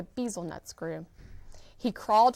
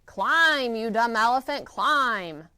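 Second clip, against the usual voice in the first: yelling bug; 3 semitones higher, 6 dB louder, slower than usual. Acted. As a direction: bark orders at the elephant. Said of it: "kept yelling".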